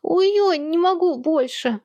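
high, slow hammed-up groaning; over-the-top pretend suffering; mock agony. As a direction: fake dying of pain, high and drawn out. Twin fakes pain.

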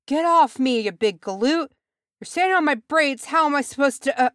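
a squashed dwarfling shouting up at a big galoot; indignant shout. A narrator's reading. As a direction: yell from under the pile.

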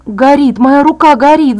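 crying out. A narrator's reading. Injured girl feeling her hand burn, crying out. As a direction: cry out in burning agony. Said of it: "закричала я".

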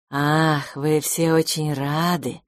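cat answers the happy friends with a sly purr; insinuating purr. Acted. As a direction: slide the words in like a sly cat. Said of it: "вкрадчиво сказала".

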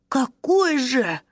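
high surprised gasp. Acted. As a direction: gasp it out in wonder. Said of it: "ахнул Вундер".

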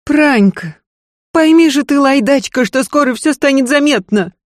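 high, loud scolding mistress; lady berating her maid in a panic; agitated lady. Acted. Mistress scolds the maid about her pregnancy, agitated and loud.

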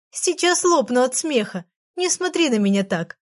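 лёгкий намёк на стон от смеха, выше; едва изображая, как задыхаешься от смеха. Acted. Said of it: "стонала она". (стонет от смеха, чуть выше)

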